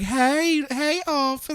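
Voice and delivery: feminine voice. Retold or imitated. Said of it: "You do the black voice better".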